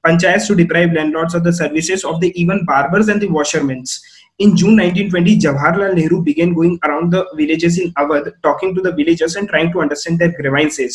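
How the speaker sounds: slow, deliberate reading of the textbook. Shown as a demonstration. Teacher reading the textbook to students, slow and deliberate. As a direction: read each phrase out slowly for the class.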